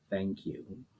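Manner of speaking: very soft, barely there; far-off whisper of many voices; faint chorus. A narrator's reading. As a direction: breathe it like it is fading away. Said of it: "in voices so faint".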